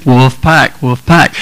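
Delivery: "Wolf pack, wolf pack" in two even beats; two syllables. Shown as a demonstration. Preacher teaching the chant, two even syllables. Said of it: "I'm making two syllables".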